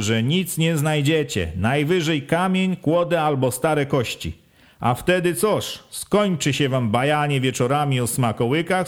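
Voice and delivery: lightly voiced village head, pressing and sharp; harangue the villagers; a hint of an official lecturing a village.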